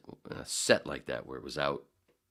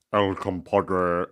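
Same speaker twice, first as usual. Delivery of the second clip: put-on slow, stiff nasal white-guy accent, louder; imitating white voice; 10 dB louder, much slower than usual. Coworker mocking the restaurant name in a white-guy voice. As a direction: draw it out like a square white guy. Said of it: "Eddie Murphy doing the white voice".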